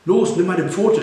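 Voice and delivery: high, loud urgent command; sudden shout. A narrator's reading. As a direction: call out an order all at once. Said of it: "rief Tom auf einmal".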